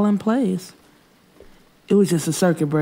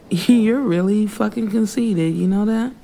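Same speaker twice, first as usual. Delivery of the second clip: amused and incredulous, laughing through it; laughing disbelief; 4 semitones higher than usual. Acted. Woman teasing a cocky man, laughing disbelief. Laughing at his conceited line.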